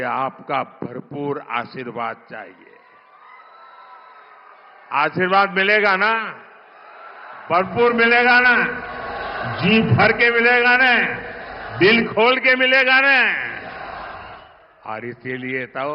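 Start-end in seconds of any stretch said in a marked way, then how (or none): 4.9-13.2 building rally call. Real, not acted. Rally call for crowd reply.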